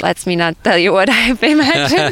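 real laugh breaking into the words. Real, not acted. Student declining to share what was pictured for stress, laughing.

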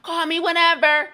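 sing-song fake enthusiasm; mock gushing sign-off. Reading out the client's text, mock cheery sign-off. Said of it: "And she's like".

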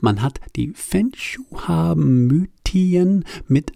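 Flüstern. Real, not acted. Geflüstert.

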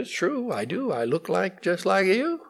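lightly voiced meek young lion; conceding little sheep lion. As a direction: concede it softly, with a lilt.

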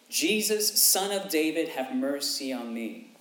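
high, loud cry for mercy. Acted. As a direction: call out loud to Jesus, fading on the plea. Beggar's cry read aloud.

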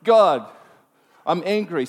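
loud burst on the first word, then reined in; mock-angry cry to God; exasperated complaint aimed at heaven; retold anger. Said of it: "I'm sitting there angry".

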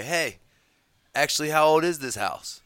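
high, loud, pushy question; mock demanding question. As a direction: demand it like a nosy investigator.

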